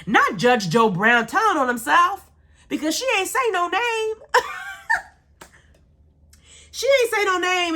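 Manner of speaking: high-pitched incredulous mocking, breaking into laughter; high, amused ridicule; gleeful mockery. Real, not acted. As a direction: crack up in disbelief at his blunder. Mocks the judge exposing himself.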